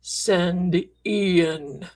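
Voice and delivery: hint of a spooky spirit voice, drawn out; eerie recorder voice. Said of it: "this voice comes out and says".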